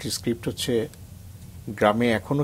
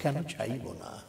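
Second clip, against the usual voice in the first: slow, much softer recited line; hushed poem refrain; 3 semitones higher, 8 dB quieter, slower than usual. Acted. Poet nears the end of the poem, hushed and slow. Soft refrain before climax.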